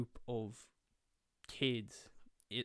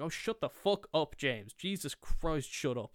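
louder, higher mock telling-off; exasperated; 4 semitones higher, 5 dB louder than usual. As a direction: shut the nerd down, fed up. Classmate snapping at nerdy kid.

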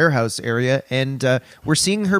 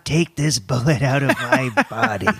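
laughing through a mock Reagan plea; lightly voiced wounded president; Ronald Reagan impression. Host voices Reagan begging Gorbachev, breaking into laughter.

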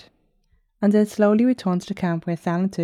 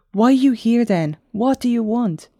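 raised, higher-pitched challenge; shouting back; 6 semitones higher, 5 dB louder than usual. A narrator's reading. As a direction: demand answers, pitched up, voice raised. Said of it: "Vanis shouted back".

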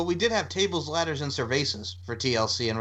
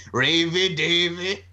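drawn-out call; 3 semitones higher, 4 dB louder, much slower than usual. Pretend. Mocking name call-out.

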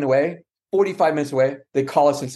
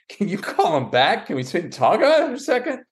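higher, rushing, flustered begging; panicked plea; 7 semitones higher than usual. Retold or imitated. To his wife on the phone, higher flustered rushed plea. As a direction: scramble for time, higher and faster.

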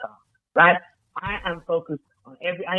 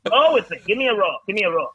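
rousing shout; 3 semitones higher, 5 dB louder than usual. Pretend. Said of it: "Come on, roll with me".

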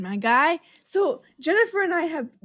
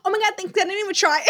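mock humble brag; 4 semitones higher, much faster than usual. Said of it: "And she goes".

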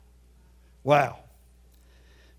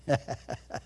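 laugh; 6 semitones lower, 12 dB quieter than usual. Real, not acted. Laughs after his mock verse.

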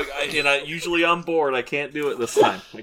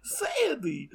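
called name; 6 semitones higher, 8 dB quieter than usual. Acted. Calling a name from Grease.

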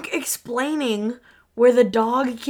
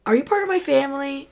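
lightly voiced little girl, higher and quick; higher-pitched child's question; 5 semitones higher, faster than usual. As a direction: ask it like a curious kid.

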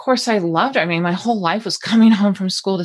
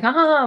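weird laugh; 10 semitones higher than usual. Retold or imitated. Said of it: "like, this weird laughing".

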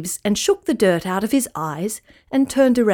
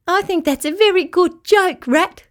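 amused; 9 semitones higher, 4 dB louder than usual. A narrator's reading. Rabbit amused.

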